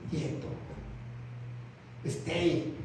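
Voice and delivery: calm command. Acted. God tells you to be still.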